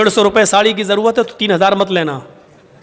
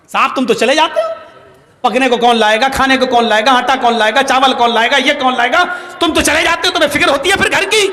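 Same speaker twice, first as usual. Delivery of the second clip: rising, nagging rebuke that climbs higher; scolding wife; 4 semitones higher than usual. Retold or imitated. Wife berating Umar for leaving her, higher nagging scold. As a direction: scold your husband for always leaving. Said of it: "عمر کے اوپر برس رہی ہیں".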